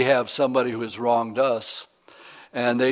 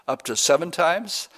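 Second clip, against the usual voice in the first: Up to seven times? lifted into a rising, hopeful question; 5 semitones higher than usual. Retold or imitated. Peter asking Jesus, hopeful rising question. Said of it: "how often should my brother sin against me".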